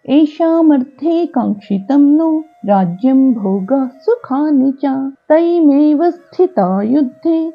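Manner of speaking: slow, measured Sanskrit shloka chant; verse recitation. Acted. Teacher reciting a Gita verse for learners, measured chant. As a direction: recite the verse in long, drawn-out syllables.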